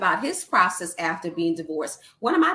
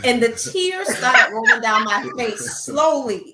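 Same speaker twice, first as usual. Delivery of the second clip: louder, choked-up retelling; reliving the tears; emotional telling; 6 dB louder than usual. Real, not acted. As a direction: voice swelling with tearful emotion. Recounting crying while telling story.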